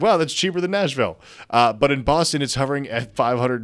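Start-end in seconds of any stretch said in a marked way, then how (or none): 0.0-1.2 mock surprise. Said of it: "I was like".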